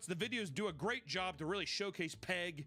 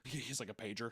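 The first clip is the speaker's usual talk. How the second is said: ordinary delivery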